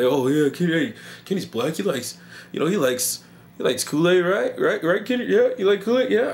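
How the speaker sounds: high, loud, excited pushy questioning; mock eager pestering. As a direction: imitate an overeager host, rising on each question. Mimics people pushing Kool-Aid on him.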